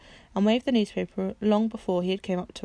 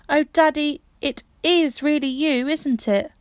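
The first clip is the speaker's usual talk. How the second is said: tearful joy; 7 semitones higher, 5 dB louder, slower than usual. Acted. Bobby clinging to father.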